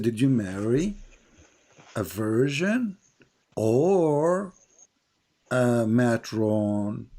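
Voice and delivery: slow, drawn-out mocking question; mock prophet's question. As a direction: drag each word out to mock him. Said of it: "He said".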